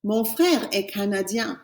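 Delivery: "Mon frère est canadien" slow and soft, nasal end on canadien; teacher saying the translation; slow French model. Shown as a demonstration. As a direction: model it slowly. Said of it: "My brother is Canadian".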